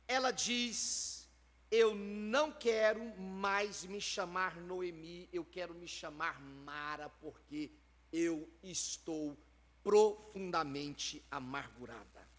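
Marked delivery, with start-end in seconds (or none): 1.7-12.3 grieving lament. Retold or imitated. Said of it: "em razão do seu luto, da perda".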